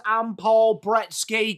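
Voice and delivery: slow, deliberate robotic announcer read; mock Xbox voice reading the name. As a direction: announce it like the console greeting you. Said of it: "Xbox says".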